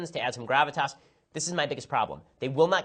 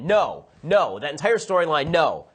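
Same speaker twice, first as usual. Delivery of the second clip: loud, punched refusals; exasperated, louder outburst on each no; emphatic rejection; 6 dB louder than usual. Real, not acted. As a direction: shut the idea down with forceful no's. Flatly rejecting a plot in rant.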